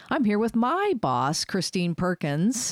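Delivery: excited host intro, slowing on the name; own cheerful intro. Shown as a demonstration. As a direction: announce it proudly, up on "my". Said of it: "So today I get to say".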